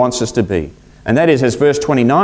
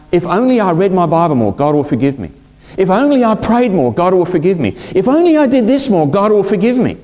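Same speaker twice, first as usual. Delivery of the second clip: each plea climbing higher in pitch; anxious pleading building higher; 5 semitones higher than usual. Acted. Preacher voicing a guilty believer, rising pleading.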